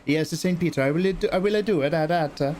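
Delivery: eager Italian nun. Acted. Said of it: "They're all Italian".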